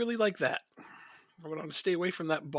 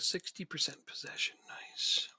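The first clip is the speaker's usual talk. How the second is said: whispering; 6 dB quieter, slower than usual. Real, not acted. Quiet aside during match.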